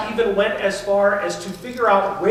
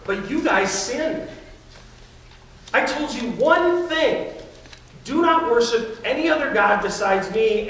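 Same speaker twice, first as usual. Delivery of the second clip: a touch of sarcastic scolding, not God's real tone; mock scolding. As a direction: play a mocking God who rubs their sin in. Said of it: "with a tone of scolding or of shame".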